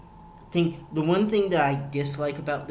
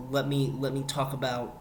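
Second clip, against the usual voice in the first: put-on country accent. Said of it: "in my country-ass accent".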